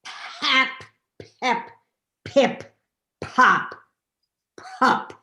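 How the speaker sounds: chanted nonsense syllables, rising; intoning. Acted. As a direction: intone each syllable slowly. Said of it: "He intoned".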